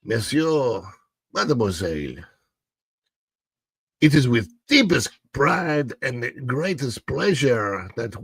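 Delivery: grand French-accented host welcoming diners; caricatured French maître d' welcome. Shown as a demonstration. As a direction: put on a theatrical French accent, unhurried and formal. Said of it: "she wants a French accent".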